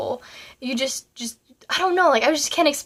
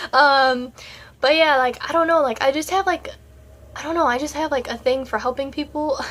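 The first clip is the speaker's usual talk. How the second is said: holding back tears; 2 semitones higher, 3 dB louder than usual. Real, not acted. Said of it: "I told myself I wasn't gonna cry".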